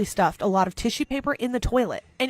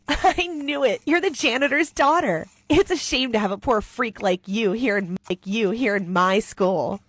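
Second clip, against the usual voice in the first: gloating jeer. Acted. Bully taunting the janitor's daughter, gloating. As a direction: crow over your discovery.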